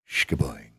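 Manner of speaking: low, springy mock boing noise; a silly spring sound for the jump; cartoon boing sound. Showing the price spring up on the chart, a low cartoon boing.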